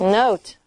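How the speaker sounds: "Note" with the O saying its name; long O sound. Shown as a demonstration. Teacher showing what the added E does, long O sound. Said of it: "And we add an E".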